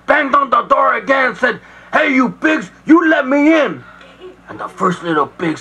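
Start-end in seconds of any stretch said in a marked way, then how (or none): 1.9-3.8 higher, mildly angry demand; angry landlord. Acted. Landlord banging on the pigs' door, angry demand. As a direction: demand entry in a raised pitch.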